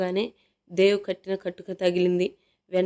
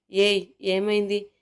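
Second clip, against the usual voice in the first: slow, louder worried "hey, what happened"; anxious call; 5 dB louder, slower than usual. Acted. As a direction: call out to her in alarm, drawn out. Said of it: "కంగారుగా అడిగాడు".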